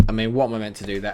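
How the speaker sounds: ordinary delivery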